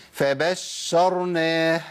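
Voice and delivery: فبشرناه recited slowly with a full, measured sh; correct doubled shin. Shown as a demonstration. Teacher modelling the verse word, measured shin in فبشرناه. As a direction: give the doubled sh of فبشرناه its exact time. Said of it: "تمكين زمن الرخاوة المظبوط".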